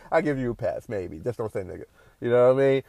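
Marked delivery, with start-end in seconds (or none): 0.0-1.2 mock Italian uncertainty. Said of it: "Even some Italian folks up there is like".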